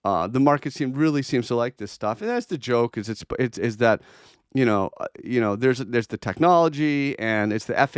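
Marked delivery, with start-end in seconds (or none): 0.0-2.2 tongue in cheek. Acted. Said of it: "a little tongue in cheek saying".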